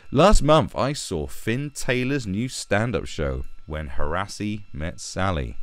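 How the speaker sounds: slow, deliberate mocking recital; mocking read-aloud. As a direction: read it out with exaggerated pomposity. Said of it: "let's read what this little boy has to say".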